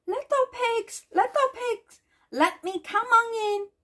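high-pitched wolf call, mildly menacing; lightly voiced snarling wolf. A narrator's reading. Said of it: "he snarled".

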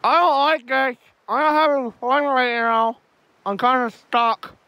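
talking around a phone in mouth; words mumbled past a phone between teeth; phone held in teeth. Real, not acted. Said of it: "I'm gonna put the phone in my mouth".

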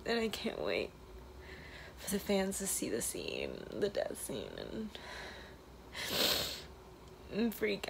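emotional, near tears, half whispered; tearful goodbye. Real, not acted. Emotional trailer video, last day.

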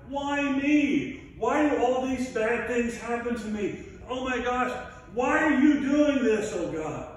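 a self-pitying wail at God; whiny lament. Retold or imitated. Job cries out to God in his suffering, a pleading lament. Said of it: "he starts to get kind of".

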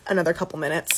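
talking with strips on teeth; slightly muffled by whitening strips. Real, not acted. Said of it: "I do have whitening strips on my teeth".

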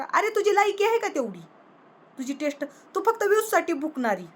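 scornful outburst. Real, not acted. Furious rant at the woman.

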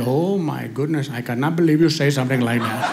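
mock dismay in an Indian accent; imitated Indian accent. Upset stranger to the dad, mild put-on Indian accent. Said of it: "heard an Indian person cuss".

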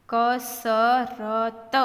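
slow, four separate syllables; sounded out. Shown as a demonstration. Teacher modelling reading for learners, sounded out. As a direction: stretch કસરત out as ka-sa-ra-ta.

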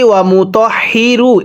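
ওয়া মু তহ হি রু with no sound from the throat; wrong way, demonstrated. Shown as a demonstration. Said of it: "এরকমভাবে পড়লে পড়াটা শুদ্ধ হবে না".

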